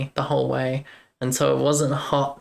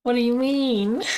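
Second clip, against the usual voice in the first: puzzled surprise; 10 semitones higher than usual. Real, not acted. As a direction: ask it high-pitched, taken aback. Reacts to comment on pronunciation.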